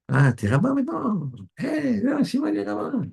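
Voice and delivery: high, sing-song taunt calling out to a friend; mock the new rabbi like a teasing friend; mocking jeer. Mocking friend teasing Shimon about becoming a rabbi, high sing-song jeer. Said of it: "Il se moquait de lui".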